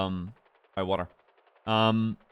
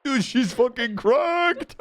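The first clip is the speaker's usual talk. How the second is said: excited; 12 semitones higher, 3 dB louder, much slower than usual. Real, not acted. Cheering the flying.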